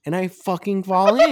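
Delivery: loud laugh bursting through the words. Real, not acted. Telling a buddy about falling in a ditch, laughing loudly. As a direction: crack up mid-sentence at the fall.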